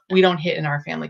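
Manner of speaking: level, falling statement, no question in it; calm and firm. Shown as a demonstration. Parent calmly stating the family rule, firm statement. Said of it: "it's just a calm".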